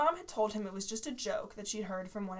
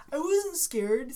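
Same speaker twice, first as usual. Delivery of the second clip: defiant; 5 semitones higher, 6 dB louder, much slower than usual. Acted. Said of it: "said Kevin Nivek".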